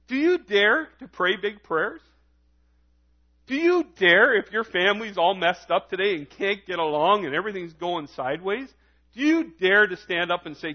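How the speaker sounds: rousing challenge with hard-hit openings; urgent, lifted sermon appeal; impassioned preaching. Real, not acted. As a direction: preach it as a direct dare to the congregation.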